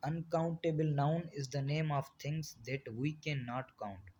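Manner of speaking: very slow, word-by-word reading of the definition; slow dictation. Shown as a demonstration. Teacher dictating a definition to the class, very slow and even. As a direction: spell the definition out slowly for students to copy.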